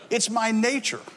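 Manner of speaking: lightly acted scorpion, spoken out clearly; scorpion's line restated. Scorpion's line repeated to the listeners.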